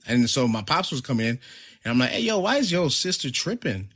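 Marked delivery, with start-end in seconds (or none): 2.1-3.9 high-pitched mock exasperation; retold complaint. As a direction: complain in a raised pitch, imitating an earlier protest.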